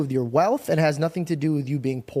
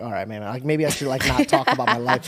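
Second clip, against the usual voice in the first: self-mocking, laughing; 3 dB louder than usual. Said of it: "I'm like".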